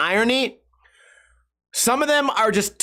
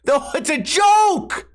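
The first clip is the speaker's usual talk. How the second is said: exasperated shout; 5 semitones higher, much slower than usual. Retold or imitated. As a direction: yell it out in frustration. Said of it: "I go".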